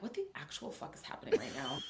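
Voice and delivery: hushed, voiceless disbelief; retold dumbfounded whisper; stunned whisper. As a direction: whisper it as if in shock. Retold stunned reaction to husband.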